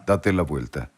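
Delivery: deep, soft voice from behind; low divine voice. Retold or imitated. A presence behind the bed telling him to turn, low and soft.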